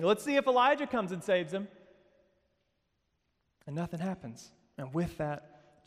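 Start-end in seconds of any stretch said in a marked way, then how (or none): 0.0-1.7 lightly mocking, higher voice; crowd's mockery. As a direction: imitate a jeering crowd, pitched up. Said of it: "they're mocking God, and they're saying".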